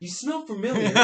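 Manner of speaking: high, eerie voice; creepy sniffing stranger. Acted. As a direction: say it like a strange beast-man. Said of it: "he's like".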